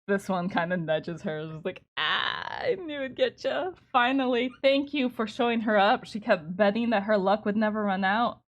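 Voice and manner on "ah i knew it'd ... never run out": high, loud gloating friend; gloating NPC voice. Acted. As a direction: crow over her loss. NPC gloats, thanks player.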